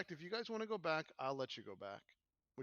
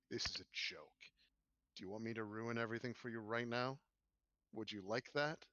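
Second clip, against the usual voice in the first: menacing NPC; 3 semitones lower than usual. Acted. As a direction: taunt while holding the rod. NPC grabs rod, menaces.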